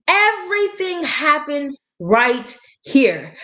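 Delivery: each word drawn out slowly; slow emphatic repeat of Everything happens right here; slow and deliberate. Shown as a demonstration. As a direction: lean on it slowly so it sinks in.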